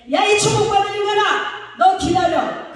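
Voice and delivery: high, loud comic outburst; mock angry yell. Preacher showing a pastor how to scold with blessings, mock furious. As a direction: shout it like a curse, half in fun. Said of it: "화가 되게 나면".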